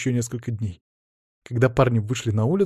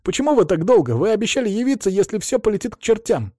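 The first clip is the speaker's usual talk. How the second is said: high-pitched, aggrieved protest; indignant; 9 semitones higher than usual. A narrator's reading. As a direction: complain like someone let down. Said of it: "возмутился Артур".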